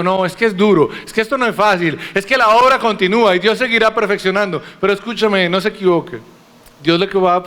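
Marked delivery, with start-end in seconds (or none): 0.0-4.6 higher, mildly whining mock excuse; whiny excuses. Preacher imitating believers excusing their sin: mild whiny excuses. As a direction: play the lazy believer making excuses, lightly. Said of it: "Y entonces digo".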